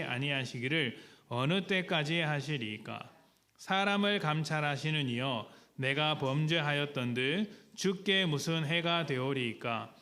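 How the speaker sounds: slow, measured, solemn reading aloud; slow congregational Bible reading; scripture reading. Acted. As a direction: read the verse together, slowly.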